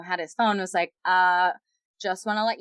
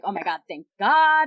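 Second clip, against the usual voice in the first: louder, emphatic relieved exclamation; retold relief; 7 dB louder than usual. Friend retelling her escape from him, relieved and emphatic. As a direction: re-enact big relief, leaning on the last God.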